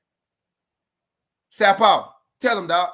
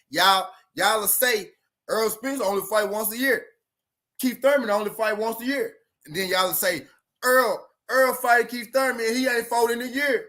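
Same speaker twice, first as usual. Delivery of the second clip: slow, spelled-out repeat; said slower; 5 semitones higher than usual. Shown as a demonstration. Repeating his point to the chat, slowly. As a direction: lay it out slowly so chat gets it. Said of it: "I'ma say it slow this time".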